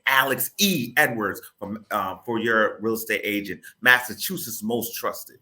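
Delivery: radio-ad announcer with measured slogan. Shown as a demonstration. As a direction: sell the name like a campaign spot. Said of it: "you go right into the radio voice".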